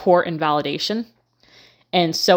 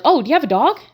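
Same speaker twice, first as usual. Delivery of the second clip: imitating him, sing-song and higher; 8 semitones higher, 5 dB louder, much faster than usual. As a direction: mimic his fake-friendly sing-song. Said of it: "in a sing-song voice was like".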